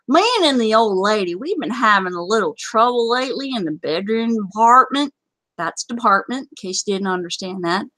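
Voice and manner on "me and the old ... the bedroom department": a touch of Southern comic narration; Southern accent. Acted. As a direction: read the tale with a Southern twang. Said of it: "I did my Southern accent".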